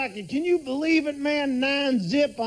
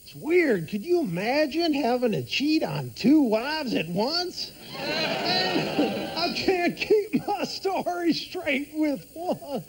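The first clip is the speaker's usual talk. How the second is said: Bill Clinton impression; 2 semitones lower than usual. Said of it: "President Bill Clinton".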